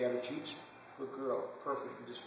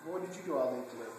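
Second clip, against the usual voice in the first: cooing at own dog; 4 semitones higher than usual. Retold or imitated. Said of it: "You ever come up to your dog and go".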